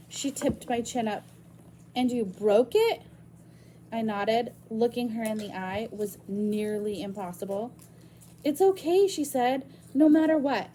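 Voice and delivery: reading a novel aloud to the class; story narration. Acted. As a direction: tell the story to students. Reads novel chapter aloud to class.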